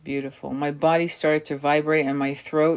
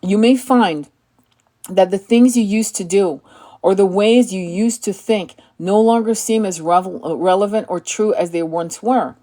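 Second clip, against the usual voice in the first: measured, solemn inspirational read; calm, deliberate spiritual reading; oracle card reading; 3 semitones higher, 4 dB louder than usual. Acted. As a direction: read it like a sacred message.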